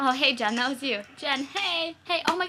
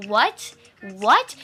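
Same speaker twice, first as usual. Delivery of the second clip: baffled what; 11 dB louder than usual. Real, not acted. Stunned repeated what.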